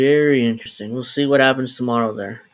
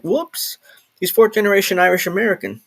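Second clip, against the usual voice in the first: higher, a squeaky whoops then a bemused reading; mock surprise; 7 semitones higher than usual. Streamer mimics finding out Beto is Irish, mock surprise. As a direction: act out realising you got it wrong. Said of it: "I'm like".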